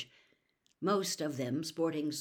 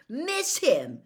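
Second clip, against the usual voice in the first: scoffing; 8 semitones higher, 9 dB louder than usual. A narrator's reading. Harry scoffs back.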